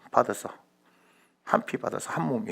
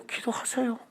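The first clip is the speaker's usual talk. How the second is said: high, light, soft voice; much higher, softly delivered advice; pat pastoral reply; 12 semitones higher, 4 dB quieter than usual. Acted. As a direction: chirp it back as a stock answer. Same pat reply repeated.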